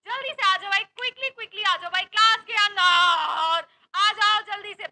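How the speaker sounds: loud, urgent call to hurry in. Real, not acted. Teacher calling students into class, loud urgent call.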